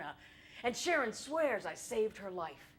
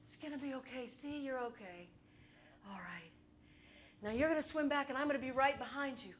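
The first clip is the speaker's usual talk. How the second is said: soothing friend; 2 semitones higher, 4 dB quieter than usual. Retold or imitated. Calming friend in water.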